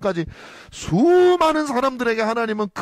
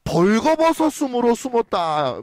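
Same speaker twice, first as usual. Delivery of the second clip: mock Adam; 3 semitones higher, slower than usual. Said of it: "아담은".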